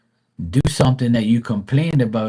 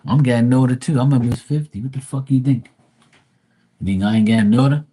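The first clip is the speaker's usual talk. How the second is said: louder, exasperated retort; telling mom everyone gets older, exasperated; 4 dB louder, faster than usual. Retold or imitated. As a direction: build to a fast, loud comeback. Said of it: "I'm like".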